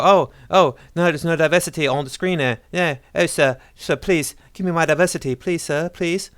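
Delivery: high, whimpering beggar act; mock pleading complainer. Pretending to complain about screen diversity, mock pleading voice. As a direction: beg pitifully in a hammed-up high voice. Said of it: "am I allowed to complain and go".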